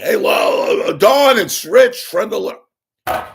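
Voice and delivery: high, drawn-out imitation shout; yelling. Fan re-enacting for his mom, yelling at Rickles. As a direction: holler slowly, as if across a parking lot. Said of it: "I'm, I'm yelling".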